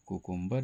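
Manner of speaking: कुकुम्बर starting with a plain KOO; koo-koom-bar for कुकुम्बर, the wrong way; common mispronunciation. Shown as a demonstration. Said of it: "इसका सही उच्चारण नहीं है". (कुकुम्बर का गलत उच्चारण, 'कु' से शुरू)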